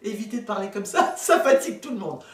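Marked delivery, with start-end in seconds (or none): 0.0-0.1 very high, loud squealing teacher call; insufferable schoolteacher. Retold or imitated. Mocking teacher calling the children, shrill and loud. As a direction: call the kids in a piercing head voice. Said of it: "les institutrices insupportables qui appellent les enfants".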